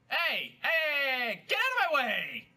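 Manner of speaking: high, insistent calling out; exasperated high-pitched holler; annoyed shout. Real, not acted. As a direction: yell at someone blocking you. Shouting at co-player blocking him.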